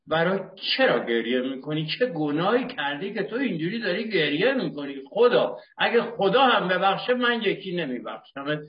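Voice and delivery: a wife demanding the truth, in a high accusing voice; wife's scolding. Retold or imitated. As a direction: scold him like a wife who won't forgive. Wife scolding him at mourning.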